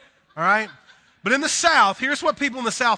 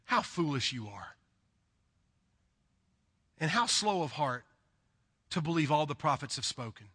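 a softer, hushed reading of the verse; quiet scripture reading; 3 semitones lower, 6 dB quieter than usual. Acted. Preacher reading scripture aloud, quiet and solemn. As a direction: read it low and gently to the congregation.

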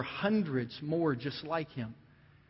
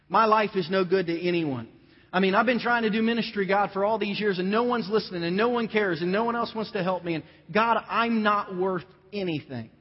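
raised, pleading lament to God; despairing complaint; 5 semitones higher, 5 dB louder than usual. Acted. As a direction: pour out the despair, higher and louder.

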